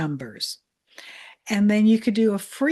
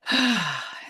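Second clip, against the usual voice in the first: calming sigh. Shown as a demonstration. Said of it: "this little butterfly thing".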